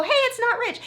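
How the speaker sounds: high-pitched mock holler; imitated call-out. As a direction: pitch it way up, as if hailing someone playfully. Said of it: "point at him and go".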